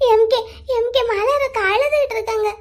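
upset, tearful report. Acted. Girl reports her sister was crying, tearful. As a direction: break the news while crying. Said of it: "நீ அழுதுட்டு இருக்க".

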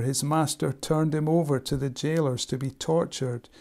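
steady storytelling reading of a parable; scripture reading. Acted. Preacher reads Matthew eighteen to the congregation, steady and measured. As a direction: tell the parable plainly to the church.

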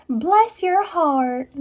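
high, slow Southern belle accent; drawn-out mock Southern sweetness; slow, high Southern belle drawl. Shown as a demonstration. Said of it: "Give me a Southern belle".

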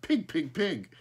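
the surprised crow hears Smoky squawk, high; crow cry. Acted. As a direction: caw it like a crow mimicking a man. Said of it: "a crow that cried".

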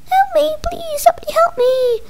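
high panicked little voice; squeaky pleading. Pretend. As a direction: beg like a tiny victim. Crayon victim pleading in play.

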